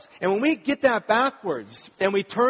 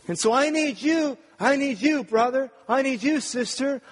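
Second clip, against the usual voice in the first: mock needy believer; 5 semitones higher than usual. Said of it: "This is how we talk".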